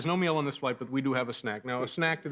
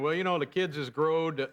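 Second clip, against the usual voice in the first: slow, slack-jawed dumb guy; 3 semitones higher, slower than usual. Acted. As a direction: drawl it like a clueless hick. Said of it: "This, by the way, is my dumb guy voice".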